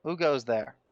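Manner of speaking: booming guard's shout; dopey cartoon bellow. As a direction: bellow it across the yard. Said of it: "you hear a booming voice yell across".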